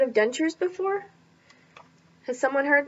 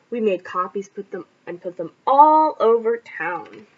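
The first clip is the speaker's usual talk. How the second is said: panicked shout; 3 semitones lower than usual. A narrator's reading. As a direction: shout like you've just been robbed. Reads story aloud to class.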